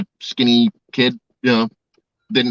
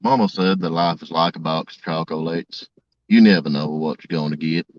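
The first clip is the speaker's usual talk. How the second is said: Southern-accented impression, pitched down; Forrest Gump; 6 semitones lower than usual. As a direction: do the famous film line in a low Southern voice. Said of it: "Do something from Forrest Gump".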